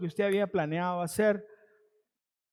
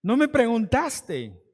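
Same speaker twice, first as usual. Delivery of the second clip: reclamo lento; 2 semitones higher, 4 dB louder, slower than usual. Retold or imitated. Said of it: "porque dije".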